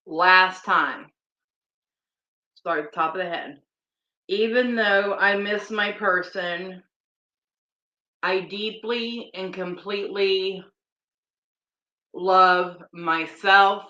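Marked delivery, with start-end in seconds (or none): 4.3-13.8 guided affirmation. Acted. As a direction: lead each line gently, pausing between. Last round of tapping affirmations.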